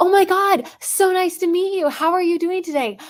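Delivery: high, gushing, overly bubbly fake enthusiasm. Example of a disingenuous greeting when meeting someone, overly enthusiastic greeting. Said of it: "I sound disingenuous, inauthentic, like overly enthusiastic".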